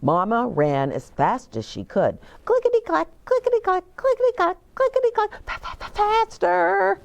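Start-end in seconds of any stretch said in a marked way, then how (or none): 2.4-7.0 high, quick clickety chant; breathless high galloping chant; running rhythm. Acted. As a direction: build it up like running shoes. Mama running fast.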